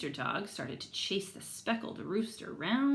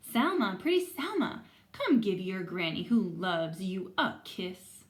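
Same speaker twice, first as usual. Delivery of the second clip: lightly voiced granny; 5 dB louder than usual. Granny greeting who she thinks is Salma, fond call. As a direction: call out sweetly to your granddaughter. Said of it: "cried Granny".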